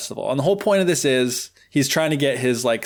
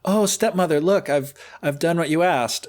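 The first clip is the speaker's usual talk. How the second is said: put-on higher, hopeful girl voice; eager Cinderella, higher; 4 semitones higher than usual. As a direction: Cinderella proudly telling stepmother she finished. Cinderella reports to stepmother.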